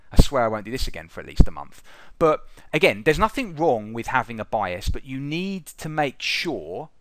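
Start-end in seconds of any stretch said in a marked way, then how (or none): 0.1-1.8 mock promise. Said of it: "the age-old classic".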